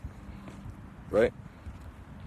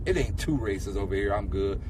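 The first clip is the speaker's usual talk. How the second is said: relaxed black folk; 11 semitones lower, 4 dB quieter than usual. Retold or imitated. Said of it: "We be like".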